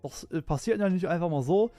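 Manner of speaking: a hint of Merkel's measured address; steady chancellor speech tone, light impression; mild Merkel speech impression; Angela Merkel. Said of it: "that was a Angela Merkel impression".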